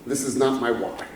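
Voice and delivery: soft, with weight on "not"; hushed, "not" firm; quiet emphasis. Real, not acted. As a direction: drop right down and lean on "not". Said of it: "be very clear".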